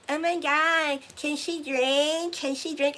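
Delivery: high, loud eager mother begging; mom's excited plea. Retold or imitated. Mom trying to get the rabbi's attention, high eager plea. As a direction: squeal it like a mom wanting his attention. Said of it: "and she was like".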